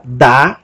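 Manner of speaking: da singled out and held; stressed syllable. Shown as a demonstration. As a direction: set da apart as the accented syllable. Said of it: "o acento dela é na sílaba".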